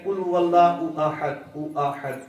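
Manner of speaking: slow, drawn-out قل هو اللہ احد with doubled لّ; careful recitation. Shown as a demonstration. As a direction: stretch اللہ slowly and clearly. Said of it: "پڑھ، سمجھ آتی ہے". (آہستہ، صاف تلفظ کے ساتھ قل هو اللہ احد)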